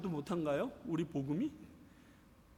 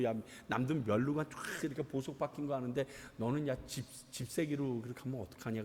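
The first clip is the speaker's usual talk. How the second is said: casual coaxing; 4 semitones lower, 5 dB quieter than usual. Acted. Voices God speaking casually to Yuchan.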